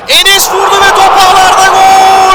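full-throated goal scream, high and loud; screaming football commentator. Real, not acted. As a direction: roar the goal call, stretching names. (gol anında bağıran spiker)

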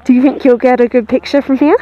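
loud call to someone far off. Real, not acted. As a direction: shout across to him. Calling to Steven far off.

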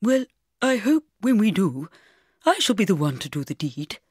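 put-on vicar voice, arch and playful; gay vicar. A narrator's reading. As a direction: play the vicar chiming in from the side. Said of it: "said the voice on my other side".

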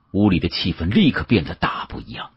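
plain reading voice

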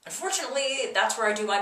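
echoey bathroom sound; speaking in a small tiled bathroom. Real, not acted. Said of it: "if I sound echoey, it's because I'm in the bathroom".

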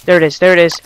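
loud alarmed call; alarmed cry. Real, not acted. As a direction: call it out in fear. Monster appears.

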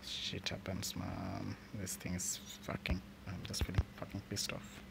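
soft, fast whispered seething; quiet whispered frustration; whispered fury. Real, not acted. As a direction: hiss your anger under your breath.

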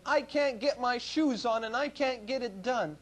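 imitating a child whining about his shoes; whiny child. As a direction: drag it out like a kid who won't try. Child's complaint quoted by father.

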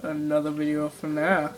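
deep, softened YouTuber intro; Markiplier. Acted. Boy imitates YouTuber intro, deep voice. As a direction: drop low for the greeting. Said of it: "like, a really deep voice".

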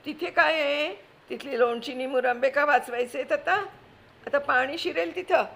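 high, loud, scolding housewife in a panic; frantic aunt. Acted. Wife panicking at husband as flood comes, frantic scolding. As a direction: snap at the husband while grabbing valuables. Kaku mocks cellar plan.

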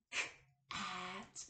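"K-at" split into K and at; sounded out. Shown as a demonstration. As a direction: pull "K-at" apart sound by sound. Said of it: "break down the beginning, middle, and ending sound".

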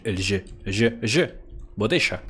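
trying the ll of "Botella" the Spanish way; failed Spanish double L. Shown as a demonstration. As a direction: attempt a Spanish ll, landing on "sh". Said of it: "la doble L es otra cosa que no me sale".

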